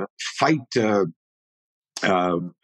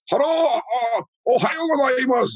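a much higher, bowing-politeness greeting voice; high mock Japanese greeting. Martial arts student greeting a Japanese teacher in a high mock voice.

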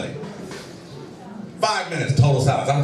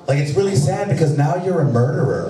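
accusing daughter; 4 dB louder than usual. Retold or imitated. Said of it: "She's like".

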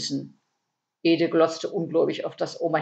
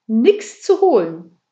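drawn-out, louder whine, pitched up; whining croak; 5 semitones higher, 7 dB louder, slower than usual. A narrator's reading. Käthe whines to the burglar, croaking complaint. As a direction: wail it slowly with a complaining quack. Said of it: "jammerte Käthe mit einem mittlerweile unüberhörbaren Quaken".

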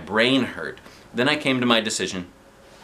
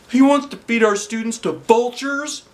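stunned disbelief; 5 dB louder than usual. A narrator's reading. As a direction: drag it out in shock. Klutz voiced.

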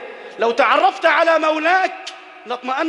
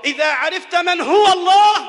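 إذا عرفت من هو الله said higher and louder, rising on الله; rising refrain; 4 semitones higher, 5 dB louder than usual. Acted. Preacher rousing the congregation, repeating the refrain louder. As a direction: lift الله up with a rising call.

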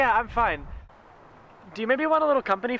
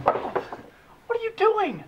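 slow stunned; 9 semitones higher, 3 dB louder, much slower than usual. Acted. Stunned by the push.

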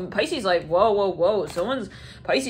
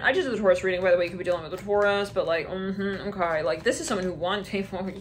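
usual speaking voice

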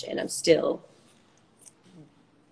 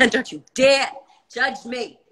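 laughing mock warning; 3 semitones lower than usual. Warning listeners off judging her playing, laughing mock threat. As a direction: playfully warn them through a laugh.

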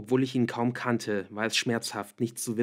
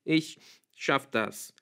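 halting, higher, slow tearful voice; sniffling; 4 semitones higher, much slower than usual. A narrator's reading. Tearful girl assures her boyfriend she can manage, sniffling. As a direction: say it slowly through mild tears. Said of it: "sagte ich schniefend".

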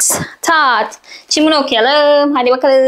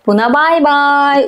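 sing-song goodbye; slower than usual. Pretend. Waving a word goodbye.

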